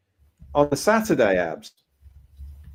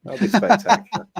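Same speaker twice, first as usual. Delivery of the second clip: laughing; 8 semitones higher than usual. Real, not acted. Joking about landing in the field.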